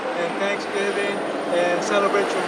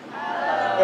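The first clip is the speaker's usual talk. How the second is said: audience echo. Real, not acted. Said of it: "Everybody say".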